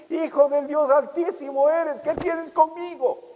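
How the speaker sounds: voz de demonio aguda y lenta; voz del demonio. Retold or imitated. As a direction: imita al demonio que teme a Jesús. Demonio habla a Jesús. (voz de demonio más aguda, arrastrada)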